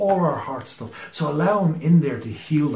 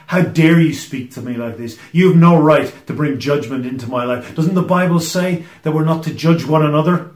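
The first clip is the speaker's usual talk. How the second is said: offended indignation; 3 dB louder than usual. Retold or imitated. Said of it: "respond with offended indignation".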